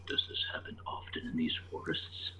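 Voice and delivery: hushed, barely voiced question; whispering. Adventurer asking a nearby companion about the forest, whispering. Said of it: "try my best to whisper".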